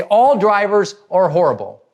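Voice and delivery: mock driver rant. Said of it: "they completely freak out".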